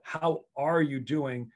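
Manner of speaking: slow, deliberate, each word given weight; sincere question. Shown as a demonstration. Coach checking on a player, sincere and unhurried. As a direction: ask it slowly like you truly want the answer. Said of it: "I really wanna know".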